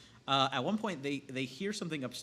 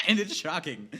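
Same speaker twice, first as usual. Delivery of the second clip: laughing; 5 semitones higher, 10 dB louder than usual. Real, not acted. Laughs at shocking scene.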